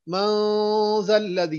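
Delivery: मन जल्लज़ी with the n hidden into a nasal hum; ikhfa. Shown as a demonstration. Teacher demonstrates ikhfa, slow nasal. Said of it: "यहाँ पर इख्फा हो रहा है".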